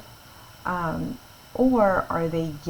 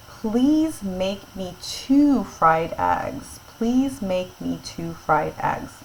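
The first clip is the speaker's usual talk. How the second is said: slow plain reading; much slower than usual. Shown as a demonstration. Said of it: "not a question".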